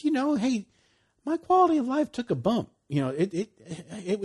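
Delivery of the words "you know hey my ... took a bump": high, loud, eager exclamation; excited. Retold or imitated. Preacher voicing a believer's discovery, excited. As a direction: burst out with the good news.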